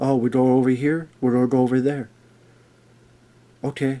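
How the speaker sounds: bland, wooden, low, bored monotone. Critic imitates an actor's bored performance, mimicking a bored, bland line reading. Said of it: "I'm talking like this".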